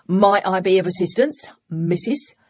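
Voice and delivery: put-on a playful young man hamming a Cockney cabbie; mock East End accent. Ed teasing Flora at the cab door, light mock East End accent. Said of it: "he said in a mock East End accent".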